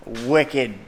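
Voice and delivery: put-on playful Boston accent, r dropped. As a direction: say it like a Boston local, no r. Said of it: "That's a Boston accent right there".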